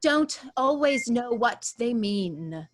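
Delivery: a hint of a mid-Atlantic actressy accent, over-enunciated; lightly imitating a theatrical mid-Atlantic accent; Catherine O'Hara's odd accent. Actor sketching the accent from Schitt's Creek, lightly mid-Atlantic. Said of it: "accent where she's like".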